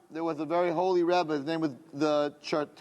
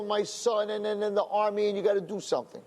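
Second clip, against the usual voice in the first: mildly hysterical plea, pitched higher; retold hysteria; 4 semitones higher than usual. Father pleading with the Rebbe over his son, mock hysterical. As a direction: imitate a frantic father, only lightly tearful. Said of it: "and he was hysterical".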